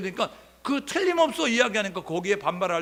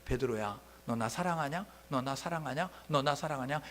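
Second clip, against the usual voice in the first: lower, softer tender asking; gentle question; 3 semitones lower, 5 dB quieter than usual. Retold or imitated. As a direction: ask softly and patiently. Jesus asks Peter gently. (조용하고 다정하게 묻는 예수님)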